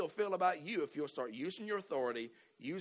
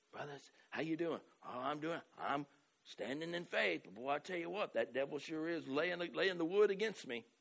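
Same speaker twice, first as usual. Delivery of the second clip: weak-faith Southern brother; 3 dB quieter than usual. Retold or imitated. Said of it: "that's a Southern term".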